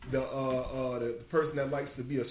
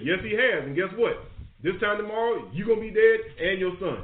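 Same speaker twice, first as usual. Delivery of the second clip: raised, emphatic voice delivering doom; stern pronouncement; 5 semitones higher, 4 dB louder than usual. Retold or imitated. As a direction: act out a prophet handing down the verdict, pitched up. Acts out Samuel's stern doom verdict.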